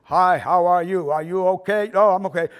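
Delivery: hammed-up, loud stage acting; exaggerated beginner actor's delivery; Mark Anthony. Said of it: "I did Mark Anthony going".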